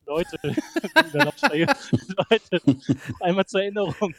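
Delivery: hint of a stadium announcer; lightly voiced PA announcement. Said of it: "kommt so die Durchsage".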